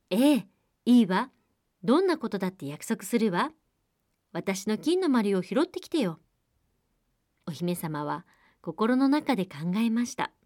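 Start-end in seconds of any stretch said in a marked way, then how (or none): 0.1-6.2 eager princess. Acted.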